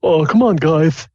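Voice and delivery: high, loud nervous plea; a halfling begging the half orcs to stop. Acted. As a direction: whine it out, scared of the bullies. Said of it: "he says nervously".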